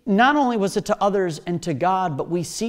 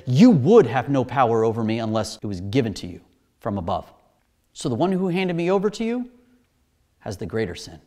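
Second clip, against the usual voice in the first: lower, measured reply; calm acted authority; 9 semitones lower than usual. Jesus answering Pilate who thinks he has power, calm. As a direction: answer low, without needing to push.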